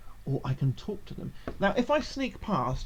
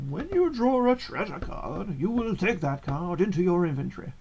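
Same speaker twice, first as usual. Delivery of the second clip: put-on wise old man voice. Shown as a demonstration. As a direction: read it like a wise old wizard. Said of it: "it's just my wise old man voice".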